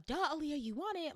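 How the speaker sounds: a hint of an exasperated mom. Mom nudging her daughter to say yes, mildly exasperated. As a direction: lightly voice mom saying the obvious. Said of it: "My mom".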